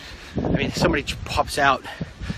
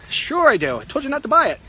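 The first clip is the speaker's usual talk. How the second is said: mom voice; 10 semitones higher than usual. Acted. Voicing mom's reply.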